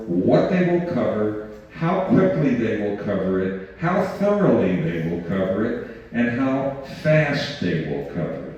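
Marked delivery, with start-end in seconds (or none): 6.1-8.5 "fast" leaned on with a falling finish; stress on fast. Shown as a demonstration. Speaker to the audience, weighing "fast" with falling stress. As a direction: hit the word "fast" and let it drop. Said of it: "I want to stress the word fast to you".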